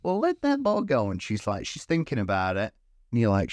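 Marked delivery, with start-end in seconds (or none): 0.0-1.1 higher, hammed-up threat; mock villain. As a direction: play the bad guy bargaining. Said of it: "'Cause they're like".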